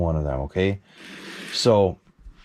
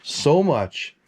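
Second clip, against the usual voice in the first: begging; 3 semitones higher, much slower than usual. Retold or imitated. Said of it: "So I begged him".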